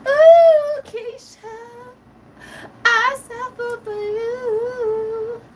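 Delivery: high, drawn-out fake moans of pain, hammed up; theatrical sympathy whimpers for a friend's knee; mock pain wailing.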